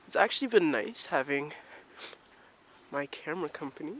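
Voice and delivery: panting while walking; breathless, puffing between phrases; out of breath. Real, not acted. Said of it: "Sorry for the heavy panting".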